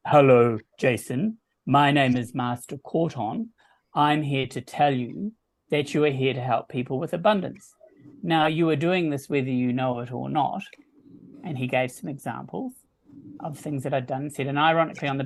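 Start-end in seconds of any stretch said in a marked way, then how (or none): 0.1-10.6 lightly voiced booming spirit guide; a hint of a deep, booming channeled master. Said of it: "deep, booming voice came through her".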